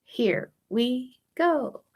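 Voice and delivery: soft slow cue to start; quiet slow here we go; soft count in. Shown as a demonstration. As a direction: ease the class in gently.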